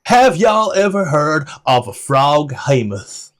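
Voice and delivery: lightly voiced guide quizzing the party; NPC voice. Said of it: "turns around and goes".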